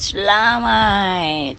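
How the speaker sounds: "Selamat" dragged very slowly, falling at the end; grudging selamat. Shown as a demonstration. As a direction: draw "Selamat" out slow and grudging. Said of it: "Kalau bunyi macam ragat". ("Selamat" dengan nada meleret dan acuh tak acuh)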